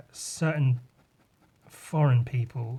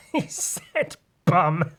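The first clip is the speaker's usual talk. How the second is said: put-on childish snicker; 3 semitones higher, much slower than usual. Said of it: "People outside of England go".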